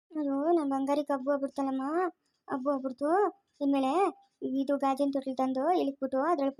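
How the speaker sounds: put-on gently apologetic baby-comforting voice; soothing a baby. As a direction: hush a crying baby tenderly. Mother soothing her fallen crying baby. (ಮಗುವನ್ನು ಸಮಾಧಾನಪಡಿಸುವ ಮೃದು ದನಿ)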